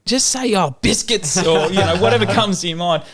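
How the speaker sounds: teacher telling pupils what to say instead of swearing; teacher explaining. Retold or imitated. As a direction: explain it gently to the class. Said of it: "she's like".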